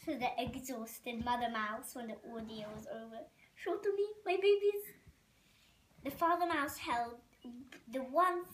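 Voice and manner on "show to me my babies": put-on higher French-accented plea, getting louder. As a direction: demand the babies in a French accent. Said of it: "A, a French accent".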